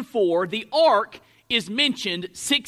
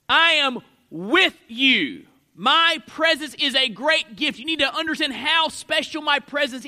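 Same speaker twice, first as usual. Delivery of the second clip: God speaking; 3 semitones higher than usual. Acted. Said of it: "And so God is saying".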